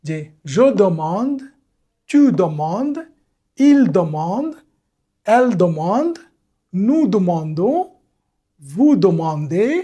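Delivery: "je demande" said slowly, with a nasal "man" and no final e; teacher showing how the forms sound; careful pronunciation demo. Shown as a demonstration. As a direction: spell out each form the French way, one by one. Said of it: "এটা উচ্চারণ হবে এরকম".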